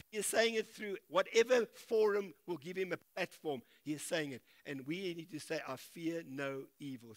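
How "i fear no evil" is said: softer and slow, leading the congregation; slow, soft declaration. Shown as a demonstration. Preacher leading the congregation in the words, slowly. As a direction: model it for them to repeat. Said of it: "Say it with me".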